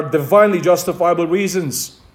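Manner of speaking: "divinely" picked out with emphasis; stress on divinely. Real, not acted. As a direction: put the weight on "divinely". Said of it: "Hence the emphasis on the word".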